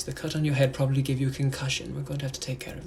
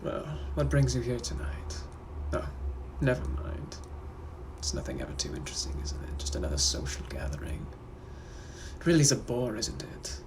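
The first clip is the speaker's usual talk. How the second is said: British gentleman; 2 semitones lower than usual. Acted. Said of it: "I'm also a British gentleman from the eighteen hundreds".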